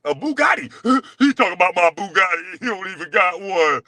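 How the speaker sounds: laughing in disbelief while mocking; cracking up at the rival. Real, not acted. Laughing at the rival's Bugatti brag.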